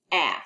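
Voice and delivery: "ah" as a short open vowel, held low; short vowel sound. Shown as a demonstration. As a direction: sound out "ah" clearly and slowly. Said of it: "Say ah".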